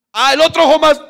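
high, loud mock tears of joy; mock weepy joy. Pastor joking his other eye teared, mock weeping. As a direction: ham up crying from both eyes. Joke about crying more.

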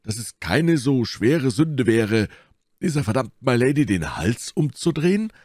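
high-pitched, swinging musketeer voice; Porthos. A narrator's reading. Porthos argues about milady and the Huguenots, high voice. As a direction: argue it high, with wide swoops.

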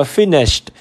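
finished ending in a t; final t sound. Shown as a demonstration. Teacher showing the ending of finished, final t sound. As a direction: say "finished" with a t after sh. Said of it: "mình đọc là tờ đây".

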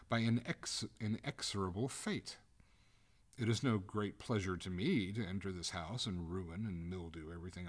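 lightly voiced doomed ghost, proud and aggrieved; indignant lady ghost. Ghost lectures the master on her doom, indignant.

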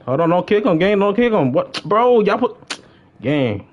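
high, rising cries of disbelief at a teammate; outraged protest. Real, not acted. Gamer yelling at teammates for kicking his friend, high outraged disbelief.

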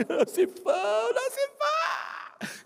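very high, drawn-out sobbing wail; wailing shout. Retold or imitated. Man hugging the pastor, wailing his name through tears. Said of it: "E gritava".

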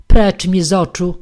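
loud, sharp order to leave; angry dismissal. Acted. Podstolina orders Papkin out of her sight, shouting. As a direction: drive him out with a shout.

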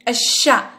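الشا with silent L and doubled sh; shadda on shin. Shown as a demonstration. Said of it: "الشين هنا عليها شدة".

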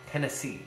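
Tennessee with weight on the final SEE; two light syllables, then land on SEE in Tennessee; teacher demonstrating Tennessee stressed on its last syllable; anapest stress. Shown as a demonstration. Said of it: "two unstressed followed by a stressed".

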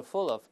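"full of" run together as foo-luv; linked pronunciation. Shown as a demonstration. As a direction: carry the L of "full of" into the next vowel. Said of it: "这个fool和l会连到一块".

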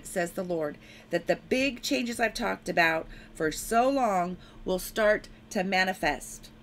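proclaiming a prophecy in the Lord's voice; prophetic proclamation. Acted. Preacher speaks the Lord's warning to enemies, firm proclamation. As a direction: declare it with firm authority.

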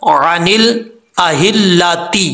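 slow अनिल अहिल्लाती with the ता sounded; joined reading. Shown as a demonstration. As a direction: run on through अहिल्लाती. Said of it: "मिला के पढ़ना".

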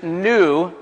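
NEW drawn out and set apart; stress on new. Real, not acted. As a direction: lean on the word new, then pause. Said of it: "I want to emphasize the word new".

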